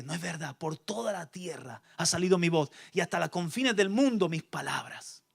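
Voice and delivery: God's soft rebuttal; God answering quietly. Acted.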